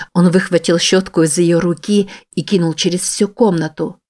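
ordinary talk

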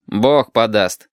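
very slow, drawn-out brush-off; dismissive. Acted. Shut brushes off Lidka's plea, slow and dismissive. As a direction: wave it away lazily.

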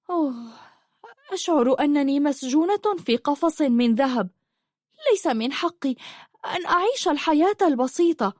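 high-pitched, pained lament; sorrowful. A narrator's reading. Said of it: "وقالت بأسى". (بأسى وحزن، بصوت مرتفع الطبقة)

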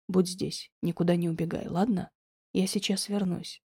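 a loving man calmly comforts Diana; gentle Alex. A narrator's reading. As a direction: reassure her quietly. Alex voiced softer and lower.

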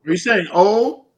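high, loud playful ribbing; teasing. Real, not acted. Host teasing the guest over her oh, high and playful. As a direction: poke fun at her oh.

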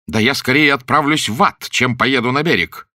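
гневно, выше и громче; выкрикнуть в бешенстве; бушуя. A narrator's reading. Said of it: "продолжал бушевать Уэйд". (бушующий гнев)

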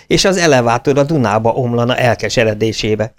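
a lightly acted outburst of wounded pride; indignant shouting. A narrator's reading. Team members shouting at the young member for suggesting a delay. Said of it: "Egyszerre kiabált valamennyi".

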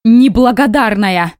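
drawn-out hurt accusation; slow, loud, wounded reproach; accusing cry. Acted. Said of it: "Шмыгнула носом".

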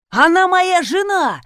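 high, loud slow bellow; furious shout; yelling. A narrator's reading. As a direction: roar it at the man. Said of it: "заорал Юдин".

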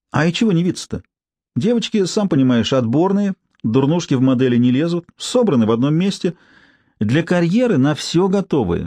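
a hint of a brassy street woman; coarse street woman. Tsypka ranting.

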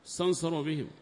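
usual speaking voice

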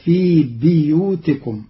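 بيوتكم with a kasra on the ba, biyūtikum; Qalun reading. Shown as a demonstration. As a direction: say بيوتكم as bi-yūtikum. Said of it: "فتصير".

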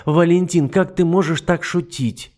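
high, loud, slow scornful rant; shrill scorn; scolding duchess. Acted. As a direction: berate him like a fool. Matilda protests.

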